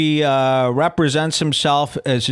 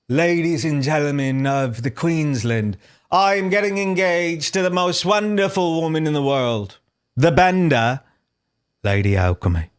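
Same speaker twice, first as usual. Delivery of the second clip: made-up post announcement. Acted. Host pretending to read Buckby's engagement post, mock-announcing. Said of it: "pretend that's what the post says".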